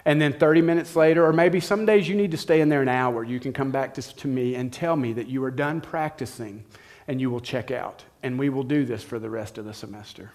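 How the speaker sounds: quiet, unhurried instructions from a patient professor; calm and firm. Retold or imitated. Piano teacher calmly giving a lazy freshman new rules, quiet and steady. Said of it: "She just very calmly said".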